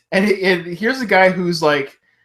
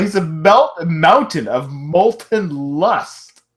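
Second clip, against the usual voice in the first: slow announcer drawl; much slower than usual. Shown as a demonstration. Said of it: "That's what I'm thinking about".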